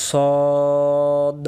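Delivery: সদ held long on a rounded "o"; correct pronunciation. Shown as a demonstration. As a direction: say সদ as one drawn-out "sawwwd", no "wa". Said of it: "সঠিক উচ্চারণ". (সদ, গোল মুখে লম্বা টান দিয়ে)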